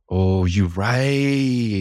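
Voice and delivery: a gasp, then a high, surprised oh you're right; suddenly remembering, caught off guard; surprised realization. Real, not acted. Gasping as her friend reminds her of the racist ex-friend, surprised.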